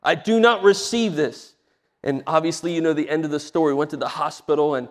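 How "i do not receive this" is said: retold plea building to firm refusal; emphatic re-enacted prayer of defiance; pleading prayer. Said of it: "I began to plead and said".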